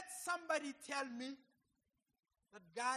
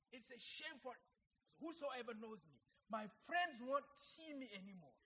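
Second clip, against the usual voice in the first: retold tearful prayer; 3 dB louder than usual. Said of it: "when I was crying in a church".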